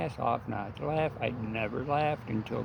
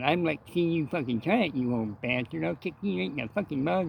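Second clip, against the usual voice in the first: higher, fast, mocking cleft-lip snarl; defiant comeback threat; 5 semitones higher than usual. Henry daring Luke across the coffee bar, hammed-up cleft-lip threat. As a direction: dare the old man to try it. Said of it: "And he goes".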